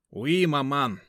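mock-French son's answer; French-tinged reply. A narrator's reading. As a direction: faux French politeness. Сын отвечает матери по-французски. (галантный французский тон)

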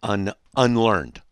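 preacher mockingly reading hate mail aloud. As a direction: read the insult back with scorn, comma and all. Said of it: "That's what he says".

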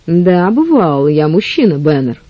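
sugary, falsely gentle tone; deceptively sweet. Acted. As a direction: sweeten it to hide the threat. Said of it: "тем же обманчиво слащавым тоном".

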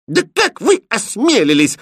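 shrill-high furious outburst; angry. Acted. Princess furiously rebukes the prince, loud angry cry. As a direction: stamp your foot at him. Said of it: "злобно топнула ножкой принцесса".

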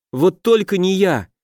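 high desperate begging; pleading. A narrator's reading. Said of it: "взмолился лохр, заламывая руки". (высокая отчаянная мольба)

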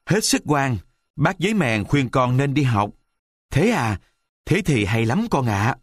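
put-on a child pleading with his father, sincere; wooden boy's voice. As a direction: puppet son promising to be good, earnest. Buratino's voice in dialogue.

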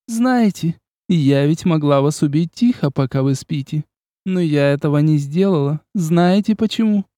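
high, teasing vampire lady; Ines the vampire. Acted. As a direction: toy with him playfully.

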